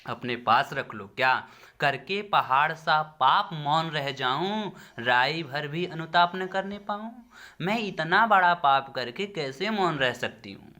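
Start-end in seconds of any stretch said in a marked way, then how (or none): 1.2-10.7 higher-pitched, mildly impassioned recitation; remorseful protest. Acted. Queen refusing to stay silent after her sin, mildly anguished protest. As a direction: protest aloud, voice lifted in mild anguish.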